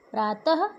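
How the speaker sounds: "प्रातः" ending in a light "ha" breath; visarga as half-h. Shown as a demonstration. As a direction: let "प्रातः" end on a half h. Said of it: "आधे ह के समान होता है".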